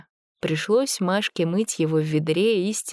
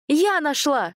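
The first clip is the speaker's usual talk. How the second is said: defiant claim; 10 semitones higher, slower than usual. A narrator's reading. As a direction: insist it is yours by finding it. Masha claims the foundling.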